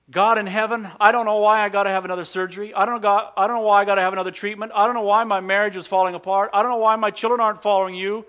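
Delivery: rapid, pleading run of complaints; crying out. Acted. Preacher voicing desperate believers praying to God, crying out. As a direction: pour it out in one urgent rush. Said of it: "You've just had to cry out".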